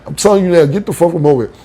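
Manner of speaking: heated insult running into a repeated command; mad. Retold or imitated. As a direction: re-enact ordering someone off. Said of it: "So I got mad".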